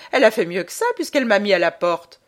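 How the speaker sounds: fast, loud, laughing retort. Acted. Tancré laughs to Bondel about being shown the door, fast and loud. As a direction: laugh it off quickly and loudly.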